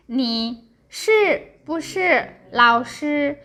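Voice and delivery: slow model of 你是不是老师, syllables drawn out; practicing tones. Shown as a demonstration. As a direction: say 你是不是老师 slowly and clearly. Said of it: "Always use picture".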